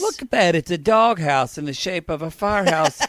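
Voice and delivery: lightly acted wonder while browsing; a touch of hammed-up discovery; mock delight. Acting out him flipping through the magazine, mock delight. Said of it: "flipping through the magazine".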